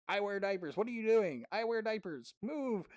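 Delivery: mock screaming gamer. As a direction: shriek it like an angry kid in game chat. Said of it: "was screaming".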